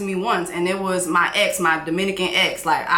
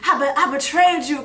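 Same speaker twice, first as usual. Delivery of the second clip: mock wail; 7 semitones higher than usual. Host mocks crying to ancestors.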